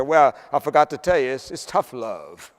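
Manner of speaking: chuckling as he delivers the punchline; boss's dry joke, breaking into a laugh. Retold or imitated. Punchline of the bank story.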